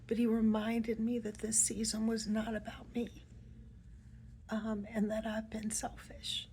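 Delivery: fighting back tears while retelling his words; real emotion breaking through a hushed voice; getting emotional. Real, not acted. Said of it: "excuse me as I'm getting emotional".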